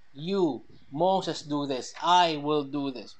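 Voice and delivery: YOU set apart, I stressed in answer; emphatic pronouns, slowing on "I will do this". Shown as a demonstration. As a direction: contrast "You" with a weightier "I". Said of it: "nakita, emphatic".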